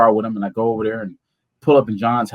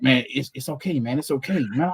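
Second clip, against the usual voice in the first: reassuring; 7 dB quieter than usual. Retold or imitated. Friend calms him down.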